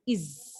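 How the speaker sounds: "is" said low and soft as ɪz; the "is" sound. Shown as a demonstration. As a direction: model the ending "is" quietly as ɪz. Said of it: "We pronounce E S like this".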